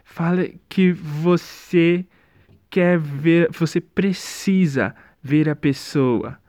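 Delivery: slow, dreamy put-on delivery; mock dazed line. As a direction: drag it out like a dazed heartthrob. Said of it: "É, fala". (imitando devagar, meio aéreo)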